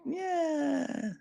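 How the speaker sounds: high, soft, unimpressed yeah; underwhelmed reaction. Acted. Acting out a first bite of underwhelming cereal, disappointed. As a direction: let the letdown squeak out quietly. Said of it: "really underwhelming ones".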